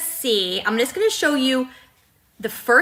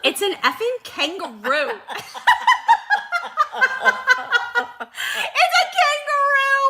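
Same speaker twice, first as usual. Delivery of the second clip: high squealing laughter through the words; laughing; 12 semitones higher than usual. Real, not acted. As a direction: laugh it out in disbelief. Laughing at the kangaroo drawing.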